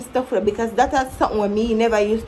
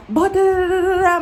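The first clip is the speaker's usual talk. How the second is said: mock aggressive retort; 8 semitones higher, 4 dB louder than usual. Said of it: "me I say".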